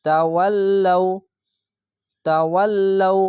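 তাওয়াল্লাউ read short with doubled ল, no lengthening; তাওয়াল্লাউ without madd; no stretch. Shown as a demonstration. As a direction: keep তাওয়াল্লাউ short, stress the ল্লা. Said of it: "এখানে কোনো টান হবে না".

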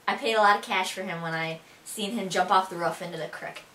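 Buffalonian, "roof" short and "creek" as "crick"; Buffalo accent. Shown as a demonstration. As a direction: show off thick Buffalo dialect. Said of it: "Now for some sentences for you guys".

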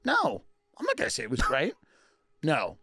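sway the jury like a slick lawyer; a hammed-up closing argument, slowing for effect; mock defense attorney. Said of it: "he's acting like the attorney of a rapper".

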